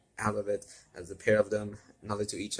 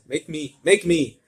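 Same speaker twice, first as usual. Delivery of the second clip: shout; 7 semitones higher, 8 dB louder than usual. Acted. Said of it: "Lewin shouted".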